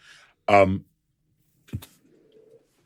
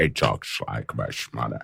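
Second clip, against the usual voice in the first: Scottish accent impression; 11 semitones lower, 10 dB quieter than usual. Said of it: "he's got such a broad Scottish accent".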